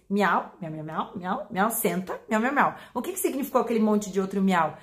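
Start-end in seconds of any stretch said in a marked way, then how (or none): 0.1-2.8 cat talk. Acted. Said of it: "Ou engatês".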